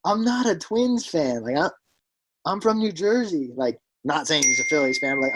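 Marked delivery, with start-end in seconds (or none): 0.0-3.5 Yankees fan. Retold or imitated. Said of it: "He's like".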